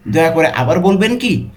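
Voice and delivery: demonstrated question tune on "দয়া করে আবার বলবেন কি?". Shown as a demonstration. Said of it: "কোশ্চেনের মতো জিজ্ঞাসা করছি". ("দয়া করে আবার বলবেন কি?" প্রশ্নের সুরে)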